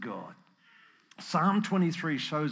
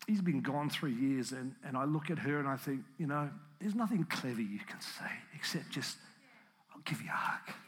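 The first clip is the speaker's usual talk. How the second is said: emotional; 5 dB quieter than usual. Real, not acted. Preacher remembering a widow's loss, emotional and fading. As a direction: let the voice sink away with real emotion. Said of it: "it's a very emotional morning".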